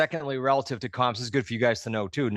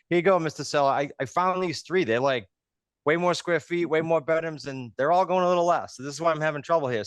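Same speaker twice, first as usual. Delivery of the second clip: mock agent to seller; 5 semitones higher than usual. Acting out talk to seller.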